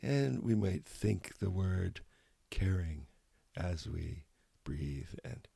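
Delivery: calm guided-meditation voice with long pauses between phrases. Real, not acted. Meditation teacher invites listeners to smile gently and breathe, calm guided meditation. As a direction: gently lead listeners inward, leaving space after each phrase.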